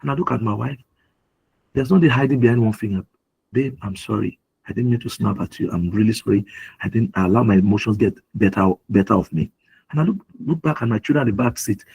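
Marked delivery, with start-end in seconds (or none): 3.5-9.5 low, subdued apology; retold apology. Husband apologising to his wife after snapping, low and contrite. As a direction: own up gently, pitch dropped.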